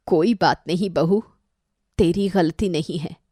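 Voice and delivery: mother-in-law forgives her daughter-in-law tenderly; forgiving. Acted. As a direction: soften and make peace.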